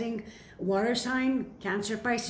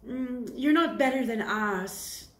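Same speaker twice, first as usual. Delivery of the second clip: higher, snooty sneer, slowing at the end; mock jealous hater; 4 semitones higher than usual. Reader mimicking jealous people sneering at the viewer, snooty. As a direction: sniff down your nose like a jealous rival. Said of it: "Because you're like".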